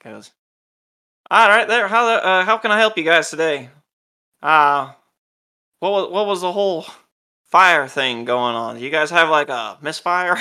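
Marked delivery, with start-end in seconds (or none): 1.3-10.4 loud, higher city guard, hearty and nosy; guardsman. Acted. Gate guard greets the arriving party, loud and hearty. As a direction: boom it out like a gate guard questioning travelers. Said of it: "the guardsman goes".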